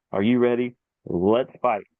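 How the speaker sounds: brisk imitated fight start; imitating a referee's quick call. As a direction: run through it like a referee starting the bout. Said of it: "a lot slower than he did".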